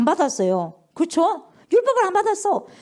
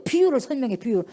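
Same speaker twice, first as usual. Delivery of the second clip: usual speaking voice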